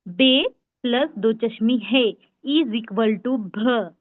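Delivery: slow, spelled-out letter equation; slow teaching demo. Shown as a demonstration. Teacher to online class, slowly building the letter भ. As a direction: lay out each sound slowly for beginners. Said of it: "ये ब sound को पहले आप समझ के लेना है".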